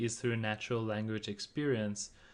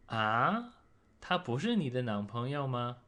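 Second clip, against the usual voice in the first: doubtful ah. Shown as a demonstration. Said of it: "expressing surprise or doubt".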